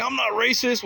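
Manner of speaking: high, loud mock protest of the guy; mock denial. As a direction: ham up his indignant denial. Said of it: "he's all saying".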